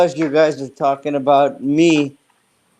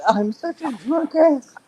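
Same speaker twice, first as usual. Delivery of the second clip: put-on high, slow, sloppy drunk voice; mocking drunk voice; 8 semitones higher, 4 dB quieter, slower than usual. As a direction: slur it like a mock drunk. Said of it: "why don't I just be like".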